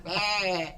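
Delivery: goofy farm-animal bleat; imitated animal bleat. Shown as a demonstration. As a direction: bleat through laughter. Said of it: "Making animal noises".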